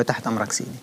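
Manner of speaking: retold soft, subdued assent; submissive reply. Prisoner told to prepare a man for hospital, submissive. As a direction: drop the volume to obey.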